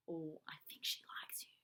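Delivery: soft unvoiced whisper. Judy reassuring Paddington, whispered. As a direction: breathe it out secretly. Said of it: "whispered Judy".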